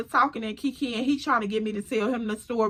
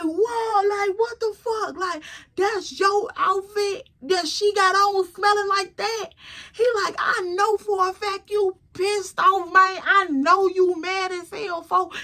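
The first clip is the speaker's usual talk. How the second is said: higher voice cracking with laughter; laughing disbelief; 7 semitones higher than usual. Retold or imitated. Friend reacting to the smelly romper, laughing and high. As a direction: giggle through it like the news is too good.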